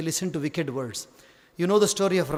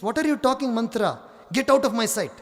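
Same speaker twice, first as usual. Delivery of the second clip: higher, sharp dismissal; indignant queen; 5 semitones higher, much faster than usual. Acted. Kaikeyi orders Manthara out in a high, indignant voice. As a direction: order her out, voice raised high.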